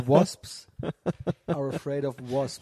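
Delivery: laughing through the words; can't stop laughing while quoting. Real, not acted.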